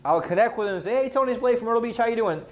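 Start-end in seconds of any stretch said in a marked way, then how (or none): 1.0-2.4 higher-pitched, familiar phone greeting; familiar, connecting greeting. Acted. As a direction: greet them like someone they already know. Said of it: "guess what my tonality says".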